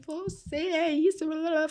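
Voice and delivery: high-pitched imitation of a child's insults; retold cursing. Boy cursing his carer from under the bed, angry. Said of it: "Ele me xingou de todos os nomes".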